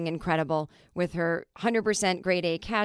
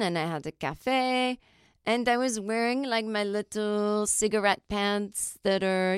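hint at a French woman listing her day. Acted. French woman explaining her casual first-date outfit, lightly acted. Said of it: "reading this article about French women".

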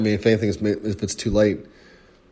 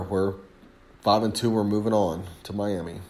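between sips of coffee; while sipping a drink; 5 dB quieter than usual. Real, not acted. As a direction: talk around a sip of coffee. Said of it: "Excuse me, I'm drinking coffee".

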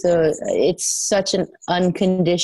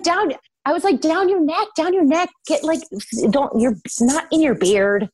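high mock coaching voice; 10 semitones higher than usual. Coaching her husband on makeup over FaceTime, pitched up high. Coaching him to blend down neck.

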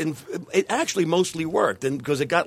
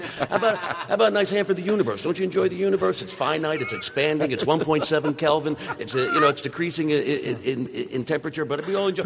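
emcee voice. Retold or imitated. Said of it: "my absurd opening".

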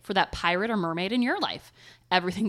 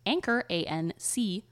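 spelling it out. Shown as a demonstration. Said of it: "spelling anchor is harder than it looks".

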